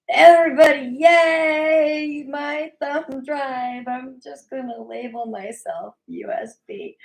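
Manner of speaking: hammed-up cheer announcing her thumb drive; mock announcing shout. Host mocking Kim, shouting high about her shirt. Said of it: "she's not like".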